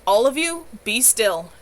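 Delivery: commanding. A narrator's reading. Sam silencing the quarreling coven, a loud command. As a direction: order them all to freeze. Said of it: "Sam commanded".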